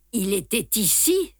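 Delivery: even, unhurried reply; Poirot answering the guard without emotion; calmly. A narrator's reading. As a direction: keep it level and composed. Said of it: "répondit Poirot calmement".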